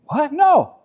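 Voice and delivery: laughing, flustered denial; mock-defensive with a laugh; laughing protest. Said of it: "I'm like".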